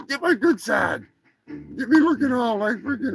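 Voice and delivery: high, demanding turkey voice; preening Turkinator turkey. Acted. Turkey poses for Eddie's screenshots, high and bossy. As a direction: direct the photographer in a high cartoon voice.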